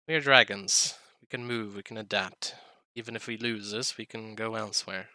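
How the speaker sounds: a hint of a solemn old dragon; lightly voiced dragon, measured and grave; dragon character voice. The speaker speaking in character.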